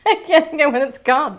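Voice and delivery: laughing while speaking fast; giggly, hurried frustration; flustered laugh. Real, not acted. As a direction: laugh at your own blank memory. Can't recall product name.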